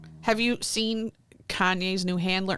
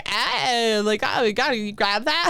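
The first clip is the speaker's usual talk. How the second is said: hammed-up, higher mimicry of annoying speech; mock fry-voice talker; 4 semitones higher than usual. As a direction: caricature an affected fry talker. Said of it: "I don't wanna hear, like".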